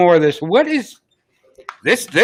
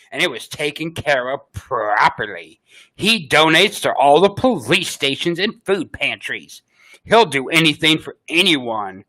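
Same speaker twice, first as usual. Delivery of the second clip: put-on Valley Girl voice. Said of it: "my best Valley Girl voice".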